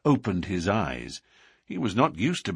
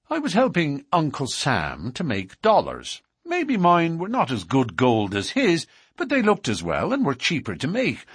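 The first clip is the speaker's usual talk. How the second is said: put-on higher-pitched, animated young-crook confession; confident newcomer; 5 semitones higher than usual. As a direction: boast of the crime to the boss. McMurdo tells his crime.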